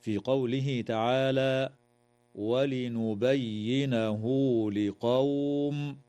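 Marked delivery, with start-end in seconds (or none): 2.4-6.0 هاء of ولنبينه joined by a two-beat واو sound; silat al-ha. Shown as a demonstration. Teacher showing the lengthening to students, very slow chant. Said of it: "وتوصل هاء الضمير بواو لفظية".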